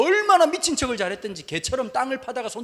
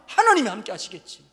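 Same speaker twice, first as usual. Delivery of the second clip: louder, insistent prayer pressing on 하나님이; fierce prayer; 7 dB louder than usual. Retold or imitated. Runner praying fiercely to God, louder and insistent. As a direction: demand it of God, voice rising hard. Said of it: "기도가 점점 싸나워져요".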